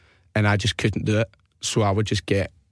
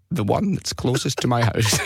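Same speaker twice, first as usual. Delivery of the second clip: lightly voiced old man, unhurried; old guy. Prank caller answers dispatcher, mild old guy voice. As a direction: play the unhelpful old caller. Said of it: "pretend to be an old guy".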